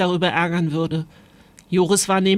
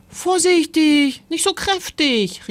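high, urgent warning cry; alarmed call; 9 semitones higher, 3 dB louder, slower than usual. A narrator's reading. Timon warning mother as she shakes out ants, high alarmed call. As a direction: call out to stop her, pitched right up. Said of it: "rief Timon".

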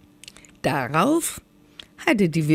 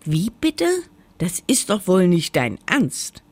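protesting; 3 semitones higher than usual. Acted. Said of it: "protestierte die Sonne".

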